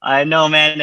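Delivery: slow, high, laughing agreement. Real, not acted. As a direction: laugh it off while owning it. Guest laughs at the teasing.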